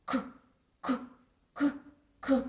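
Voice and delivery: repeated short K, K, K; bubbling porridge going «К, к, к»; k sound. A narrator's reading. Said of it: "говорила таке, такий звук". (каша булькає «к, к, к»)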